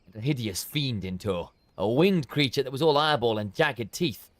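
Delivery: lightly dramatic storybook read; measured narrator voice, a touch of dread; story narration. A narrator's reading. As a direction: tell the grim tale with a hushed weight. Reads quest cutscene narration.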